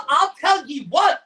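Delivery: slipping into a light pirate voice by accident; talking like a pirate. Acted. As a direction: growl it like a mock pirate threat. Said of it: "now I'm talking like a pirate".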